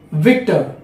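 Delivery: "Victor" with a clear V, teeth on lip; lip-bitten V. Shown as a demonstration. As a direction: bite the lip to start "Victor". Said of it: "bite your lip while you are speaking V".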